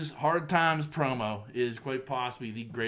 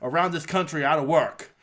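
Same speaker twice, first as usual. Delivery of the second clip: Dusty Rhodes impression. Podcast host imitating Dusty's Hard Times promo for his cohost, lightly voiced wrestler promo. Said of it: "I'm trying to do a Dusty impression".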